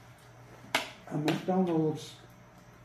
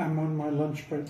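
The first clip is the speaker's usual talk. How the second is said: mouth full; 3 semitones lower than usual. Real, not acted. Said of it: "I can't speak with my mouth full".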